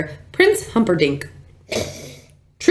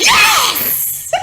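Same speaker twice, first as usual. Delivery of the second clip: triumphant shout. Real, not acted. Won the round.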